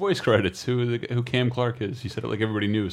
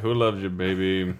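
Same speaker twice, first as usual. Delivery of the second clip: Telly Savalas; 5 semitones lower, 5 dB quieter than usual. Retold or imitated. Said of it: "how much Kingpin looks like Telly Savalas".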